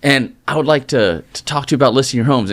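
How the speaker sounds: lightly voiced nervous rookie; eager rookie pitch. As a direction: play the green new agent at the door. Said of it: "And I lock and say".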